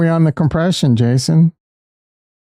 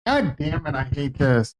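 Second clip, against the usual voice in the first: 1 quiet off-mic talk; 8 dB quieter than usual. Real, not acted. Speaking away from mic, quiet.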